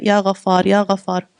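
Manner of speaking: calm, repeated name of God; dhikr recitation. Shown as a demonstration. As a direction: recite it gently, twice over. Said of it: "your mouth should be saying what".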